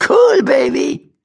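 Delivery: high, slow Cool rising, cheeky rat; high slow cheeky rat call. Acted. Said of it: "rief das Tierchen".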